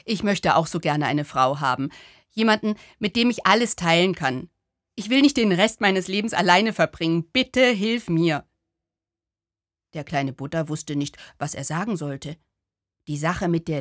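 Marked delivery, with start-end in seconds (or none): 0.0-8.5 pleading lonely man. Acted. To the little Buddha, a lonely man's earnest plea. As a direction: beg like a man afraid to stay alone.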